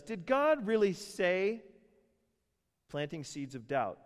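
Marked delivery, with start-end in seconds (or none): 0.0-1.6 high, slow, insinuating hiss of a tempter; louder, higher sly Satan voice; sly serpent voice. Acted. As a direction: draw it out like a sneaky serpent planting doubt. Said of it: "Satan slithers up and says".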